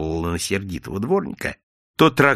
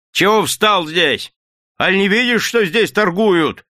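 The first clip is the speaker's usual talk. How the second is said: slow, loud, higher bark at the vendor; gruff shout; 9 semitones higher, 5 dB louder than usual. A narrator's reading. Old yard-keeper yells at the orange seller, slow and loud. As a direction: chase him off the pavement. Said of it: "крикнул старый дворник".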